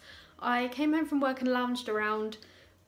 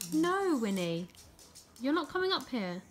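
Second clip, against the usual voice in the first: firm no; 3 semitones higher than usual. Real, not acted. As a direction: stop the dog climbing up. Dog keeps climbing up.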